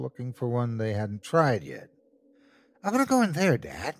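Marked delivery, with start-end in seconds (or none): 2.8-3.9 put-on eager kid holler. A narrator's reading. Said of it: "Brian hollered".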